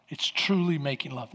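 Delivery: breathy whispered emphasis on truly. Acted. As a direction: drop to a whisper for the key line. Whispered climax of point.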